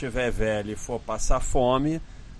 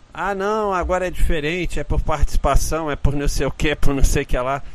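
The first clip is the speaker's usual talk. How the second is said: loud, mocking salesman's pitch; mocking sales pitch; 3 semitones higher, 7 dB louder, faster than usual. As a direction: parody the slick seller's excuses.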